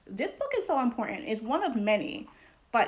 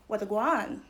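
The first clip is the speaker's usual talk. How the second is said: lightly imitated Caribbean Creole greeting; Caribbean Creole English. Lecturer quoting a scholar's three Englishes, lightly Caribbean Creole. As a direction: say it as a casual Caribbean Creole hello. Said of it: "Caribbean Creolized English".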